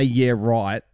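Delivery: sincere yeah right. Retold or imitated. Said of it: "You say".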